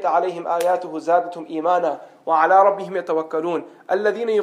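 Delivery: measured, even Arabic recitation; Quran recitation. Acted. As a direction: recite the verse reverently in Arabic.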